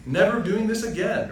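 high, lightly voiced TikTok robot lady; a touch of the automated narrator voice. Mocking a TikTok scam video in the robot voice. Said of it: "In that lady's voice, the automated robot voice".

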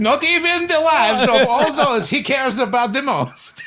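laughing through the line; giggling as you read it. Pretend. Mock trailer voice, laughing.

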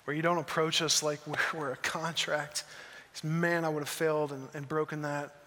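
hushed, earnest prayer voice; closing prayer. Acted. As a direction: pray quietly over the congregation. Pastor closes in prayer.

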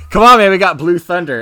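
lightly hammed-up loud insistence; mock urgent appeal. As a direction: call it out, imitating an exasperated cop. Retold plea to the confident villain.

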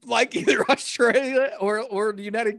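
mock-outraged high complaint about villain accents; exasperated disbelief. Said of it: "and I'm like".

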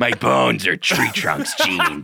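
slow, laughing goofy voice; laughing character voice. Pretend. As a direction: giggle through a tree bit. Tree bit laughing.

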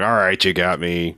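lightly put-on German accent; mock a German accent; faux German accent. Film commander confessing, faux German accent. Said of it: "from British accent to faux German accent".

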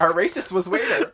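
repeating it through a laugh. Real, not acted. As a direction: giggle your way through the words. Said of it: "I'm not laughing at that mistake".

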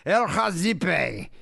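play-acting a cheeky insult at the counter; mock bold greeting. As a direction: announce El Hazibe boldly to a shop clerk. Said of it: "walk up to the seven eleven and be like".

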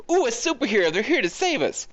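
high-pitched gushing crowd imitation; mock awe. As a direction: coo as adoring bystanders greeting a rescuer. Imitates awed crowd greeting a hero.

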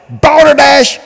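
balderdash thrown out high; high scornful shout. Real, not acted. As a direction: spit the word balderdash. Repeated denunciation.

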